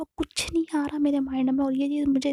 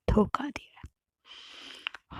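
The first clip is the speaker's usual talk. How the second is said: a slow, broken whisper of betrayal; hurt whisper; 6 dB quieter, much slower than usual. Retold or imitated. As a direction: breathe it out slowly in a hurt whisper. Betrayed lover's whispered accusation.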